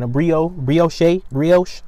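brioche drawn out slow, bree-OHSH; brioche said carefully. Shown as a demonstration. Vlogger unsure how to say brioche, slowly. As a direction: sound out brioche syllable by syllable, slow. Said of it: "However y'all be saying".

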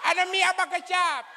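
high hammed-up panic scream; screaming Poti Guido.

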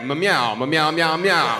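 insistent meows in a cat voice; chatty cat meowing. Retold or imitated. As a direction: meow it like a cat with urgent news. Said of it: "And he was like".

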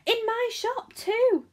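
high, slow, drawn-out proud yell; loud, amazed shopkeeper's cry; excited yell. A narrator's reading. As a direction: yell it out, stretching the words. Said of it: "he yelled".

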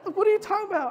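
high, laughing incredulous reply; retelling a laughing comeback; laughing retort. Retold or imitated. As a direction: scoff with a laugh. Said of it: "I was like".

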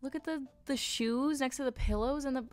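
ordinary delivery

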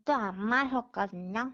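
slurred, mouth numb from anesthesia; mushy words through a numb mouth; numb mouth slurring. Real, not acted. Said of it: "근데 발음이 왜 그래요?".

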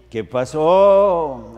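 slow, drawn-out country hello; ranchero greeting. Shown as a demonstration. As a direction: stretch every syllable. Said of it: "that's how I talk on the phone". (saludo ranchero alargado)

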